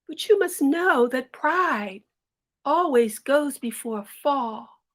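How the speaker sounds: mother holding her crying daughter, slow and tender; gentle mother. Acted. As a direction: soothe her slowly like a loving mother.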